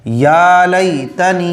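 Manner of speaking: या लैतनी read slowly and evenly; slow model reading. Shown as a demonstration. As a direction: model the word slowly for students. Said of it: "समझ रहे हैं बात को?". (या लैतनी को धीरे-धीरे, साफ़ पढ़कर दिखाना)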